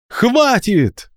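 high ringing order to stop; commanding shout. Acted. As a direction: stop everyone in their tracks. Coral stops the fight. (властный окрик)

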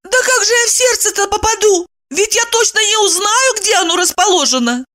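voiced heroine, high and curt; Evdokiya's voice. A narrator's reading. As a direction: cut him off sharply in a high voice.

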